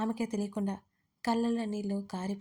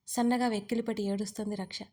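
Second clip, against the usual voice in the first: plain reading voice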